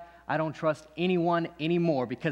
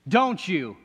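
higher and louder, pushing the question; pressing challenge; 3 semitones higher, 5 dB louder than usual. Acted. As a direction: demands an answer. Quiet then pressed again.

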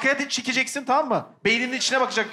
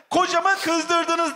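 Chinese accent; 4 semitones higher, much slower than usual. Shown as a demonstration. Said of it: "diye Çinli gibi konuşuyorsun".

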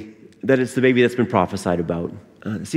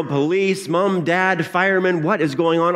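higher, mildly alarmed boss; concerned boss; 6 semitones higher than usual. Acted. Boss puzzling over the child's answers, mildly concerned. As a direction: list them with growing bewilderment. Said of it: "boss was quite concerned now".

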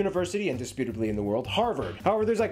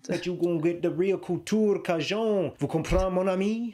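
put-on Cajun Louisiana accent. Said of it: "Louisianan accent".

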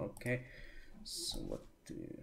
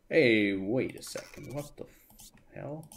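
loud protest; 9 dB louder than usual. Real, not acted. Game catches him out.

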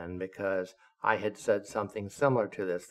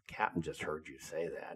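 softer, lower hushed warning; whispered warning; 5 semitones lower, 9 dB quieter than usual. Retold or imitated. Officer warning the commander, hushed and softer. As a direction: tip him off under your breath. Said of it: "I whispered to him".

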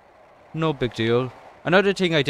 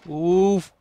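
sharp, higher grunt of impact; pained oof; 6 semitones higher than usual. Real, not acted. Gamer reacting to a sudden crash, pained oof. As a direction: let out a short startled oof. Skater takes a fall in game.

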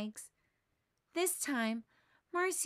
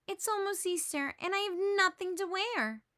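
mild whine; 8 semitones higher than usual. A narrator's reading. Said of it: "Sally cries".

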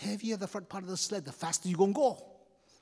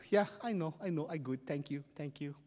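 smug, tossed-off thanks, tapering softer; arrogant; 3 semitones lower, 7 dB quieter than usual. Acted. Cocky winner acknowledging cheering crowd, smug and arrogant. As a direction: wave off the crowd's praise. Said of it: "he's so arrogant".

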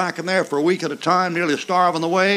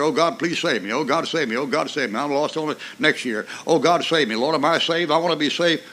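1 mock pleading sinner, fading; 4 dB quieter than usual.

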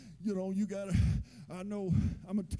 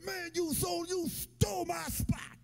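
pitched-up yell at the other driver; angry yell; 6 semitones higher than usual. Retold or imitated. Angry driver yelling at a man who took his parking spot, pitched up. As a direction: shout like someone just took your spot.

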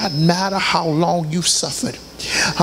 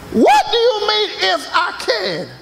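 higher, indignant repeat; offended retort; 14 semitones higher than usual. Acted. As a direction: push the insult harder. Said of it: "They come in, "Would you bake me".

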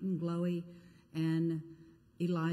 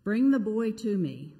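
exasperated rebuke, louder; upset; 5 dB louder than usual. Acted. Jesus rebuking the faithless crowd, exasperated loud rebuke. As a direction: scold the crowd, then command. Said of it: "Jesus is upset as well".

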